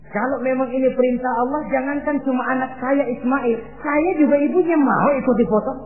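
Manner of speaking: high, emphatic declaration; resolute defiance. Acted. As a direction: throw it back with full conviction. Hajar defiantly offers herself too. (menantang tegas, nada tinggi)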